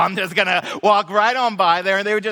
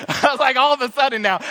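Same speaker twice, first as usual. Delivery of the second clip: ordinary talk, nothing marked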